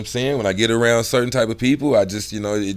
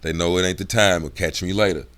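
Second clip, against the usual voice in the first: dropped, serious tone; 4 semitones lower than usual. Shown as a demonstration. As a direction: lower voice, not the time. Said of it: "I'm talking like this".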